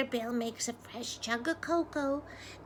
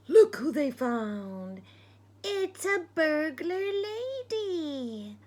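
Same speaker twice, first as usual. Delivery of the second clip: loud, slow, higher big reveal; excited reveal; 4 semitones higher, 8 dB louder, slower than usual. Acted. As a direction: unveil the surprise with delight. Big reveal to listening children.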